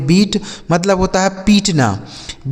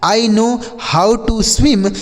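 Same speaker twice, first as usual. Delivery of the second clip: "I know how to swim" said very slowly, word by word, pitched higher; slow dictation; 5 semitones higher, much slower than usual. Shown as a demonstration. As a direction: spell it out slowly for the class. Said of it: "जैसे". (बहुत धीरे और ऊँची आवाज़ में, शब्द-दर-शब्द)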